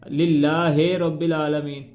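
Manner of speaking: लिल्लाहि said as लिल्लाहे with an e ending; wrong pronunciation. Shown as a demonstration. Teacher showing how not to read it. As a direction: mispronounce लिल्लाहि with a wrong vowel. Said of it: "इस तरह नहीं पढ़ना इसको".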